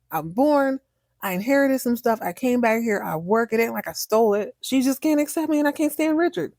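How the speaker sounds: mock outrage, rising as he vents; angry rant. Chase venting to Maggie, imitated in a mock angry rant. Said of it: "and he's angry".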